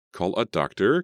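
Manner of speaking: outraged question, high and loud; incredulous. Acted. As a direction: repeat it in shocked disbelief. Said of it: "Carrie repeated".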